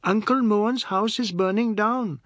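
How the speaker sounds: high, loud, thrilled; children spreading the news; excited relaying. A narrator's reading. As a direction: shout the big news gleefully. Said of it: "children excitedly relayed the news".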